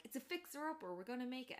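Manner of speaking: a lightly played hopeful hillbilly; cheery Tucker. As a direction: sell the dream of the cabin. Tucker voiced cheerfully in retelling.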